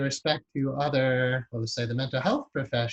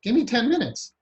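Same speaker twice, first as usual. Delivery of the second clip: higher, louder, breezy confidence; cocky mechanic; 7 semitones higher, 4 dB louder than usual. Retold or imitated. Mechanic casually reassuring a despairing customer, upbeat and louder. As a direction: toss it off like the mechanic who has seen it all. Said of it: "And he's like".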